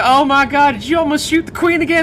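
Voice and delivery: high, loud, fast mock outrage; gasping pretend alarm; mock accusing voice. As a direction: accuse him in a hammed-up voice. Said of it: "it's like".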